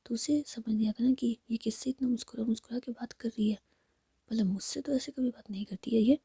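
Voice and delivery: ordinary delivery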